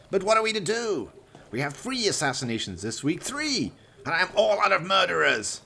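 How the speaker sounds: a villain dismissing his dead henchman; Valdemar, cold villain. Acted. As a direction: savour each cruel word. Valdemar voiced in the story.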